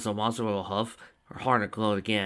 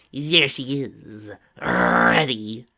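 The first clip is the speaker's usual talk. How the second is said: eager whisper-shout; 9 dB louder, much slower than usual. A narrator's reading. Tracy spots Twilight, eager.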